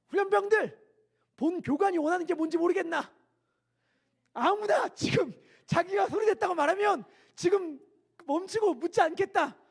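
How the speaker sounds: loud, high shouted drill speech; exasperated officer shout. Retold or imitated. Drill officer shouting at the silent recruits. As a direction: yell at the recruits, losing patience. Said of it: "정말 뭐라고 얘기했는가?".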